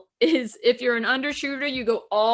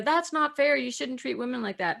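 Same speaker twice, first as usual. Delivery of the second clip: higher-pitched voice of indignant complaint; mock protest; 4 semitones higher than usual. Women protesting unfair treatment, mild indignant protest. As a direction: object on someone's behalf, pitched up.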